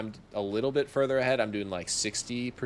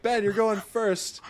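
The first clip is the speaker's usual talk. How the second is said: higher, slow announcer call; slow, raised host call-out; mock announcer call; 9 semitones higher than usual. Host calls him out instead.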